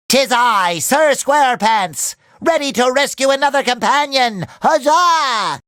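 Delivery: lightly put-on heroic knight; gallant knight. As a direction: announce yourself as a storybook knight.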